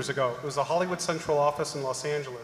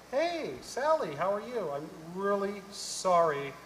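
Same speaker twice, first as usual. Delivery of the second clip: sweet phone greeting; 4 semitones higher, slower than usual. Retold or imitated. Sweet-talking supervisor on phone.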